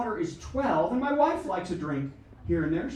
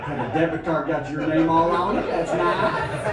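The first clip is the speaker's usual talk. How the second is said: lightly imitated Southern American accent; mock Southern wife; 6 dB louder, slower than usual. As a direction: patronize like a Southerner praising a child. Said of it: "she's suddenly from the South".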